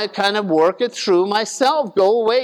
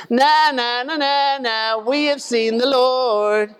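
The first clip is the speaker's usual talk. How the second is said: a light sing-song "na, na, na" jeer, slower; mild mock taunt; 4 semitones higher than usual. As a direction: tease like kids in a schoolyard, lightly. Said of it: "Maybe they were taunting him".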